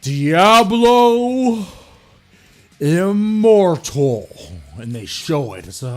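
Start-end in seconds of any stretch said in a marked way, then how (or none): 0.0-4.3 higher, louder showman voice stretching the title slowly; hammed-up reveal announcer. Blizzard announcing Diablo Immortal on stage, hammed-up showman.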